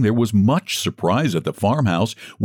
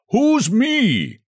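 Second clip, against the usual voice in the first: shouted question. A narrator's reading. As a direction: shout it into the dark. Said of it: "shouted Santa Claus".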